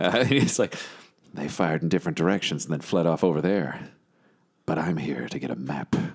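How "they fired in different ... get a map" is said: very quiet, dramatic, lower-pitched muttering to himself, put-on. Retelling what a character muttered to himself: imitating someone saying it very quietly to himself. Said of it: "he says this very quietly to himself".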